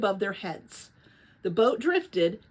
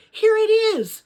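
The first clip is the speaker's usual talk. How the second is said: high, loud joyful shout; thrilled cry of discovery; wild shout; 12 semitones higher, 8 dB louder, slower than usual. A narrator's reading. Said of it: "Lena gave a wild shout".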